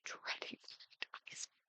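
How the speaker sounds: breathy whisper, voice dropped. Shown as a demonstration. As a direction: whisper it like a dreaded secret. Dread repeated, second take whispered.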